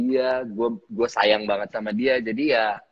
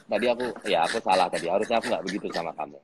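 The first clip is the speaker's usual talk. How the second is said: lower, fast sheepish apology; imitating director apologizing; 6 semitones lower, faster than usual. Actor mimics director apologizing after making him cry, low and quick. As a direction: mimic a boss backpedalling in a hurry. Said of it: "nah itu dia banget".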